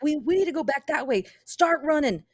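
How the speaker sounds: put-on rally the kids to run, alarmed; urgent command. Player urges kids to flee.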